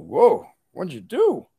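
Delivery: slow, drawn-out impressed "whoa"; mock astonishment, stretched out; amazed students. Amazed students react to the cure.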